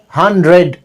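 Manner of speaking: "hundred" with a clear d before the r; careful textbook pronunciation. Shown as a demonstration. Teacher showing learners the spelled-out form, careful and slow. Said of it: "They don't speak".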